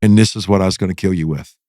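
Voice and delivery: low, emphatic close-up confrontation; retold menacing confession. Prisoner gets in Jamie's face with shank, low retold menace.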